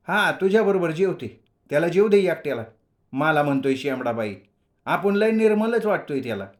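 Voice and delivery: little sister sulking at her brother; girl's sulky voice. Acted. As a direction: tease back like a cheeky sister. Young sister sulking and teasing.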